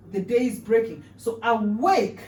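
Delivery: slow emphatic demo. Shown as a demonstration. Teacher recapping the phrase, slow and emphatic. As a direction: bring the phrase out slowly. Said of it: "two phrases that we can really bring out".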